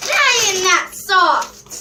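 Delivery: slow whiny complaint; petty whining grievance. Real, not acted. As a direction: drag it out, let down and sulky. Disappointed complaint about squishy.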